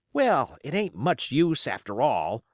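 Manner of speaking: put-on high, eager young seaman; young sailor. Youngest hand admiring Flint, high and eager. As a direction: look up to the captain with awe.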